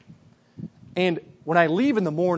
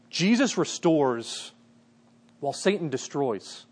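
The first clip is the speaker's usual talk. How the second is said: slow emphasis; 4 dB quieter, slower than usual. Acted. Pastor stresses key contrast.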